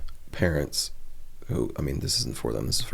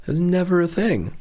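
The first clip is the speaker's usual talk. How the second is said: mock get-off-my-lawn old man rant, lightly voiced; 11 semitones higher than usual. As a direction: rant like a put-out old man, half in jest. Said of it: "do the old man get off my lawn rant".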